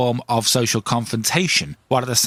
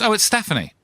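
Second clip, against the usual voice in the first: female cold caller; 9 semitones higher, faster than usual. Acted. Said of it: "And she goes".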